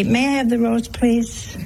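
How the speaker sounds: imitating a sister's polite table request. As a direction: ask politely, voice slightly lifted. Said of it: "Sister Houston to say".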